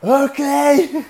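high, loud laughing okay. Retold or imitated. Agreeing without knowing the knot, loud laughing okay. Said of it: "you're like".

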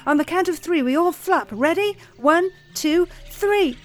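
high, loud urgent countdown; rally the others to flap; eager count. A narrator's reading. Trapped bird leads the count, high and urgent.

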